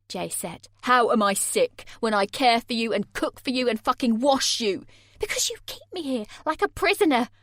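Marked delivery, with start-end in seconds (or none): 0.8-4.9 outraged. A narrator's reading. Jay outraged. 5.2-7.3 higher, louder shout. A narrator's reading. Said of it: "I shouted".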